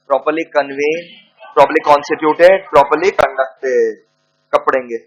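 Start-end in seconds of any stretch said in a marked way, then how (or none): 0.1-4.0 very slow listing dictation; teacher dictating the three requirements. Acted. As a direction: lay out each item slowly for note-taking. Dictating the list.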